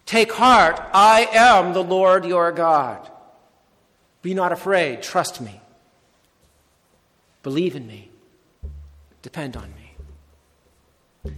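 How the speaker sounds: slow, weighty "I am the Lord your God", fading to a hush; solemn reassurance. Acted. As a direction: speak as the Lord calming his frightened disciples. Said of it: "at least a hint of".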